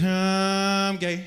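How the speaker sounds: lightly voiced high car whine saying it; a hint of a passing Prius mocking; Prius engine voice. Comic imitating the Prius engine sound, mild high mock voice. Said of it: "all I hear is".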